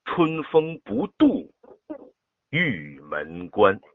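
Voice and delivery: 春风不度 lifted high on 度, then 玉门关 slow; teacher shows the stress on 度. Shown as a demonstration. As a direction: punch 度, then draw out 玉门关. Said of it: "只有最后一句".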